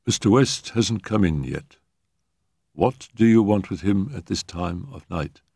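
imitating a flat, expressionless servant; lightly voiced deadpan butler; expressionless manservant voice. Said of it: "in a very fair imitation of his man's expressionless voice".

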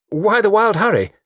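loud, high surprised question; startled, loud demand for a reason; surprised query. Acted. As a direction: exclaim it, pitched well up and falling at the end. Startled by a collision, first asking.

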